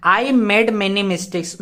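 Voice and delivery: "I made many mistakes" spoken very slowly; teacher reading the example slowly; slow dictation. Shown as a demonstration. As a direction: read it out word by word. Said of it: "तो यहाँ पे जब आप देखोगे तो क्या होगा".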